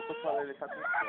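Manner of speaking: put-on baby voice. Voicing the baby's cry.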